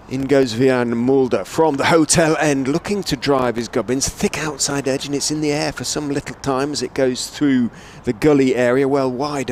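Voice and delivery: slightly lifted cricket commentary; live play-by-play. Real, not acted. Commentator calling a thick outside edge, lively play-by-play. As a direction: follow the ball as it flies off the edge.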